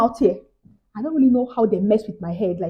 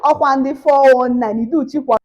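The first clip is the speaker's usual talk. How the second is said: sudden realisation; 3 semitones higher, 3 dB louder, slower than usual. Retold or imitated. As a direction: snap to the truth, slowly. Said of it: "my mind now said".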